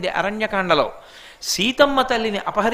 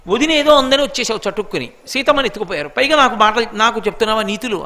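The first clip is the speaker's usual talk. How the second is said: mock scolding retort; 3 dB louder, faster than usual. Imagined brother's scolding, acted out.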